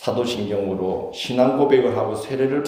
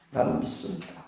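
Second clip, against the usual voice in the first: sincere; 5 semitones higher, 8 dB quieter than usual. Shown as a demonstration. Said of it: "믿음은 그래도 나는 믿는다".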